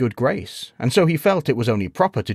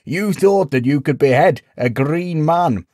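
louder, higher, mocking mirth; amused disbelief; 7 semitones higher, 6 dB louder than usual. A narrator's reading. Villager mocks the knight's attempt, amused and incredulous. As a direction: say it as if bursting to laugh. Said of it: "chuckled Crispin".

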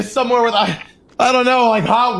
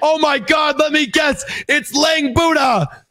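mock shock; 4 semitones higher than usual. Captive guessing who is held below, mock-shocked higher voice. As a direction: exclaim it in hammed-up shock. Captive hams up recognising fellow prisoner.

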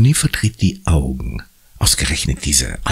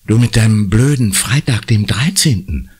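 irritated, higher-pitched retort; snapping crossly; 6 semitones higher than usual. A narrator's reading. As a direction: snap at a superstitious friend. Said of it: "faucht Conny". (genervt angefaucht)

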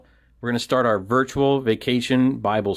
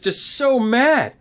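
mock exasperation; 10 semitones higher, slower than usual. Acting out the angry crowd.

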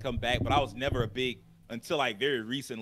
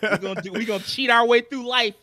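laughing; 9 semitones higher, 7 dB louder than usual. Pretend. Joking about EA giving up.

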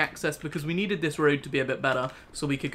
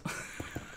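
quiet breathy chuckle; small laugh to yourself; 11 dB quieter than usual. Real, not acted. Streamer laughing at own eBay question, quiet chuckle.

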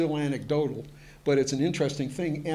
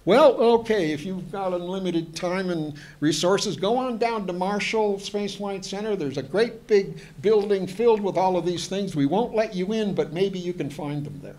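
higher, louder, breezy fobbing-off voice; mocking officials' brush-off; 5 semitones higher, 4 dB louder than usual. Archives staff brushing off the historian's request, mock breezy dismissal. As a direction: play the archivist who shrugs him off, airy and higher. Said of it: "they all say".

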